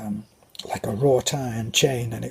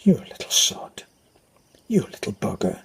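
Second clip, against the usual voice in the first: scolding mum; 3 semitones lower than usual. Retold or imitated. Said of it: "Or she'd call me a little sod".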